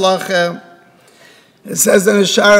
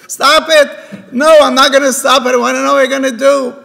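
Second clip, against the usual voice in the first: higher-pitched, urgent back-and-forth; acted argument; 5 semitones higher, faster than usual. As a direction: retort insistently, pitch raised. Father and son argue.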